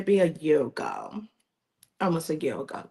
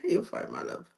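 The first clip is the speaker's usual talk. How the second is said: tender comfort; 3 semitones higher, 4 dB louder than usual. Real, not acted. Comforting the host who tears up.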